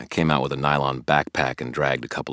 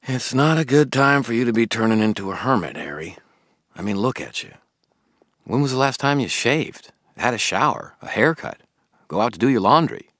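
put-on higher, earnest young man asking questions; a puzzled, keen friend pressing Harry; Billy the eager friend; 10 semitones higher, 7 dB louder than usual. Billy questioning Harry about the toads, puzzled and keen.

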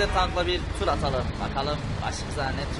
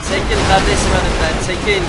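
shouting at people; 3 semitones higher, 11 dB louder than usual. Pretend. Driving tank through traffic.

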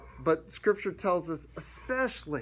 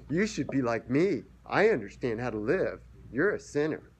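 pompous. Retold or imitated. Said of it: "Not pompousness, not condescension".

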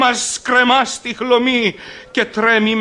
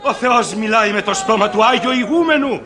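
shouting for silence. Acted. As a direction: command the crowd to hush. Calling over the crowd.

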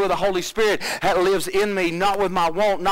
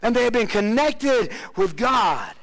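builds higher toward a shouted close; rising preaching fervor; 4 semitones higher than usual. Real, not acted. Preacher rousing the congregation, building to a shout. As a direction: climb the pitch until it breaks into a shout.

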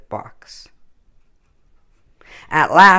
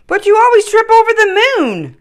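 much higher, louder, cheeky taunt; squabbling Dancer; 8 dB louder than usual. Acted. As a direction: tease like a bratty sibling. Reindeer quarrel voiced.

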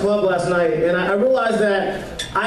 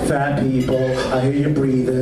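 DJ call; 7 semitones lower than usual. Pretend. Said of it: "It'd be stuff like this".

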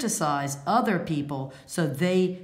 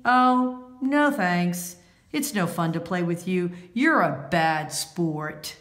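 getting even; 3 semitones higher, 3 dB louder than usual. Acted. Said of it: "Now she's getting even".

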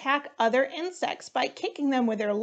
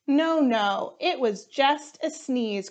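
cried out; 3 semitones higher than usual. Acted. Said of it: "cried Hippo".

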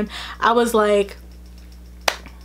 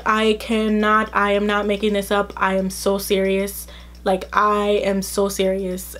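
earnest insisting; 3 semitones lower than usual. Retold or imitated. Vouching for herself to Emily.

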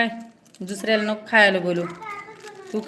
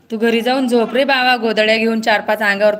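loud teasing; 6 dB louder than usual. Real, not acted. Teasing friend loudly.

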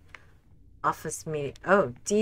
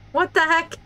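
high, louder shocked question; startled laugh; 3 dB louder than usual. Real, not acted. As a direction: caught off guard, half laughing. Startled by possessed monitor.

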